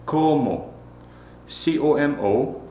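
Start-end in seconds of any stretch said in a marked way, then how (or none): 0.0-0.7 "Como" with the first o held, then falling; lengthened first o. Shown as a demonstration. Teacher asking learners to repeat, first o of "Como" stretched. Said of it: "Repeat after me".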